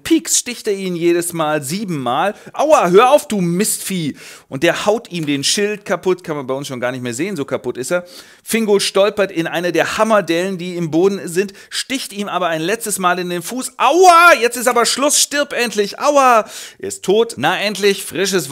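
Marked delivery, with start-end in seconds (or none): 2.5-4.2 much higher and louder yelp; mock pain yell. Morgoth stabbed by Fingolfin, hammed-up yelp of pain. 13.8-16.4 much higher and louder comic yelp; mock pain screech. Morgoth stabbed in the foot, hammed-up furious pain screech.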